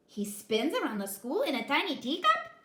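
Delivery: loud, rising shocked question; shocked exclaim. A narrator's reading. Kitten hearing about the bully, shocked. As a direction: gasp out the disbelief. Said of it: "exclaimed the kitty boy in shock".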